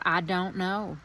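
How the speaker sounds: lightly put-on Southern accent, lifted in the middle. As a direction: quote the aunt in a playful Southern accent. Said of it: "my very best Southern accent".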